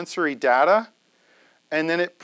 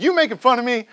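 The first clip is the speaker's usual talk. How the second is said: higher, louder mock suspicion; suspicious roommate; 8 semitones higher, 6 dB louder, faster than usual. A roommate from East Texas asking if he is mocked, mock suspicious. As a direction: play the Texan roommate, a touch offended. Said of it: "And he'd be like".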